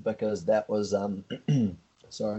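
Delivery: throat catching on food; words through a pasta cough; choking on pasta. Real, not acted. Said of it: "I'm choking on a piece of pasta".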